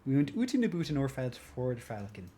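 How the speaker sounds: put-on quick Canadian accent, "oot" and "boot"; quoting a TV line in Canadian accent. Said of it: "I remember that from Sabrina the Teenage Witch".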